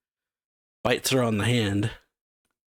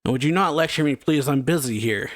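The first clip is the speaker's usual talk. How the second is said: irritated retold yell, pitched up at first; lightly acted telling-off, raised then settling; mild mock yell; 3 semitones higher than usual. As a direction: act out a yell without really shouting. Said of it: "then Mahir yells".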